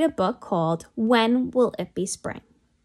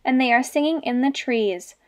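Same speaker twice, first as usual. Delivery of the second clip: excited. Acted. Alfie excited in story.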